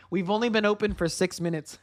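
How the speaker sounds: words broken by laughter; laughing. Real, not acted. To stream viewers about the quick move, laughing. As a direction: laugh while marveling at the move. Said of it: "one of the reasons why I'm laughing".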